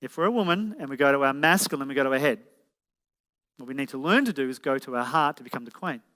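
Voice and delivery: measured, careful restatement; unhurried explanation; said again slowly. Real, not acted. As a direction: lay it out step by step. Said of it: "I'll say that again slowly".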